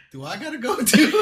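high, laughing mock worry; amused retelling of nervous uncertainty; timid bystander question. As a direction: ask it meekly through a laugh. Acting out worried bystander, laughing.

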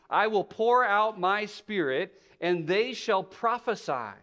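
slow, projected proclamation; scripture reading. Acted. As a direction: proclaim each phrase of the prophecy deliberately. Reads scripture aloud to congregation.

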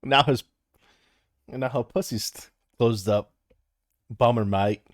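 attempted Aussie joke-telling voice; Australian accent. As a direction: read it in a put-on Australian accent. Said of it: "Can you do a-, Australian?".

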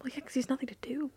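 fast whispered aside; whispering. Real, not acted. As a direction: breathe it out as an aside.

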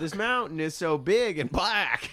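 hammed-up wonder, drawn out; mock climbing grandma. Acting grandma trying VR climbing.

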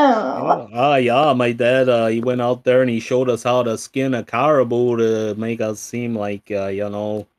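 loud, hammed-up Minnesota dad voice; Minnesota accent. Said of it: "what a terrible impression of".

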